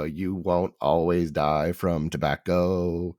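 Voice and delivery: slow mechanical voice-box drone; electrolarynx voice. Retold or imitated. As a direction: talk like through a throat buzzer. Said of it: "one of those little voice things, and I'll go".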